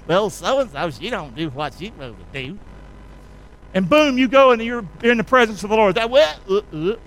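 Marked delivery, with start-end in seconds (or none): 0.1-2.6 mock gossip. Mock judgmental gossip quote.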